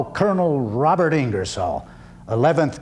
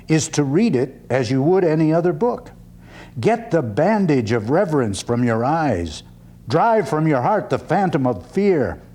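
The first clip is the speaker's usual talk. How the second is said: oratorical reading. Acted. Reads his lecture aloud.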